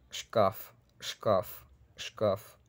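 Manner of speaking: шкаф as "shkaf", plain hard f; Russian hard ending. Shown as a demonstration. Teacher modelling example word, шкаф with hard F. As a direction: run sh into k, end шкаф on hard f. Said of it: "la F de шкаф".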